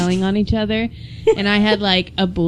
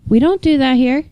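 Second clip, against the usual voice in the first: higher, uncomplicated reminder with lifted ending; simple, matter-of-fact; 5 semitones higher than usual. Retold or imitated. Moderator giving a simple reminder, higher and unfussy. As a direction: state the rule simply, pitched up. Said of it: "like, a very simple".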